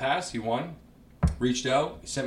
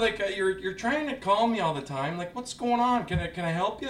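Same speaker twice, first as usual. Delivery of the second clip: much higher voice, a quick take on the premier; Doug Ford impression; 9 semitones higher than usual. Comedian doing Doug Ford on a phone call. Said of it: "he does a Doug Ford impression".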